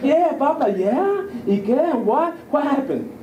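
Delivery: high, eager questions; amped. Retold or imitated. Excited parent asking the son what happened. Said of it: "So I'm amped".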